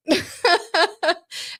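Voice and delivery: a longer high laugh. Real, not acted. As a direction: laugh at yourself, amused. Laughing at own story.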